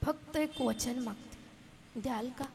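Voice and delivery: very soft, very slow begging; slow it right down and hush it; a mother's soft, slow last plea. Acted. Mother quietly begging a promise.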